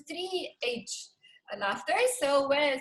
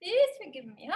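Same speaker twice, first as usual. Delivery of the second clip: laughing plea. Shown as a demonstration. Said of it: "I ask forgiveness from you".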